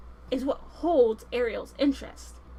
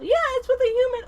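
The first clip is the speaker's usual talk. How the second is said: higher, louder tattletale blurt; blurted gossip; 11 semitones higher, 7 dB louder than usual. Acted. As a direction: blab the secret out loud. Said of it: "Sebastian is over there blabbermouthing".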